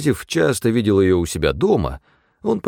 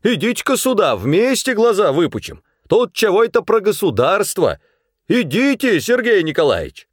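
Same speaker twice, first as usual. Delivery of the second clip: customer taunting clerk and manager; angry mockery; 9 semitones higher than usual. A narrator's reading. Angry man mocks at post office.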